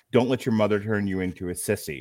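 ordinary talk, nothing marked

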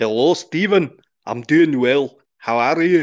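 put-on Scottish accent. Greeting the other speaker at a request: best attempt at a Scottish accent. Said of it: "my best approximation of a Scottish accent".

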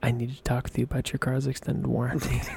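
close, hushed half-whisper, as into an ear. Acting out Dexter stabbing someone, then half-whispering: Dexter half-whispering into an ear. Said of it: "just whispers into their ear".

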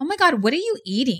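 mock sneering, disdainful, judging tone. Retelling what people asked when the speaker's body changed: imitating a disdainful question. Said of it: "with a shitty face".

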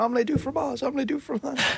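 mock panicked speech. Retelling how a man panicked when boyfriends confronted him, imitating panicked speech.

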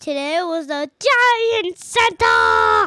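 excited, drawn-out rising scream. Answering a question about what was inside today: screaming. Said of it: "Why don't you say that without screaming?".

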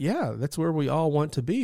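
a little snarky, sarcastic, swooping sing-song. Retelling own reply to a person who challenged the counseling: sarcastic reply. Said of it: "a little snarky, a little sarcastically".

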